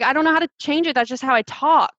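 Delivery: helpless, upset, voice up high; retold frustration. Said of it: "And I was really upset".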